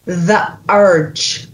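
very Scottish "urge", open vowel and sounded r; super Scottish. Shown as a demonstration. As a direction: lay the Scottish on thick for "urge". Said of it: "that's a super Scottish".

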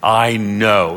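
"I know" in two firm, separated words; emphatic I know. Shown as a demonstration. Preacher explaining the Hebrew, emphatic "I know". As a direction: land firmly on both words of "I know". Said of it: "is emphatic".

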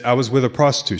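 retold admission, in an everyday tone; matter-of-fact. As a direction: own up as if it's nothing. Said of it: "How can you say that so matter-of-factly?".

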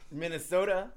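talking through a mouthful; mouth full. Real, not acted. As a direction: say it around a bite of food. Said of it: "Sorry, I had food in my mouth".

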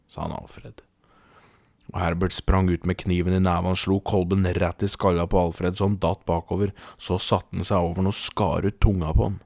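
measured, deliberate storytelling; story narration. A narrator's reading. Podcast host introduces the general to listeners, measured storytelling. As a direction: tell it as a solemn tall tale. Reads out a comic tall tale.

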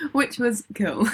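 flat, deadpan monotone. Shown as a demonstration. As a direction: say it with zero enthusiasm. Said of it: "Monotone voice".

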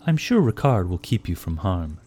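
blunt stern warden. Acted. Shiva blunt demand.

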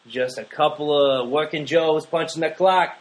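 slow hammed-up Mexican accent; bad Mexican accent. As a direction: lay on a cheesy Mexican accent. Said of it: "that was the worst Mexican accent I've ever heard".

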